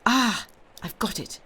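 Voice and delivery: high, loud burst of realization; sudden eureka exclamation; exclaiming. A narrator's reading. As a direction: cry out as the answer dawns. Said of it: "and then exclaimed".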